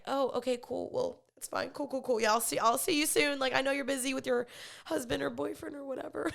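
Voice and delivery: mock it's-totally-fine brush-off; awkward letdown covered with breezy acceptance, ending in a laugh; feigned nonchalance. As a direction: play it cool after being turned down. Acts out brushing off friends' rejection.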